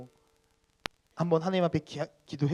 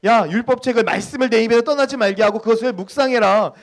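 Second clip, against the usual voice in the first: high, loud, urgent command; God commanding; 7 semitones higher, 11 dB louder than usual. Acted. Pastor voicing God's charge to the people, forceful command. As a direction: preach it as God's forceful order. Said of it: "하나님께서 우리들에게 분명히 이렇게 이야기하잖아요".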